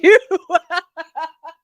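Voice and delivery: high, loud belly laugh; real laughter. Real, not acted. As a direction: burst out laughing at a joke. Cracks up at read-out joke.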